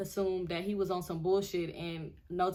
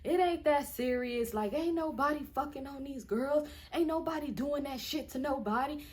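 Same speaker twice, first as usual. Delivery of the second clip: put-on drunk man; 5 semitones higher than usual. Telling Pam it ain't that serious, lightly imitated drunk. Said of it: "like, drunk, like".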